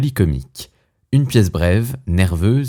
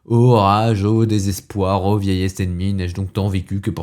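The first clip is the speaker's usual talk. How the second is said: understated parody of tragic verse; mock declamation. Gentleman mocks a man declaiming Corneille alone, mock declamation. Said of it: "qui se met à déclamer".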